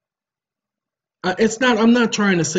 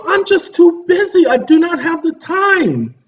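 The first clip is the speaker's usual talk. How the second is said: retold reply; 14 semitones higher, 8 dB louder than usual. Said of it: "and I told him".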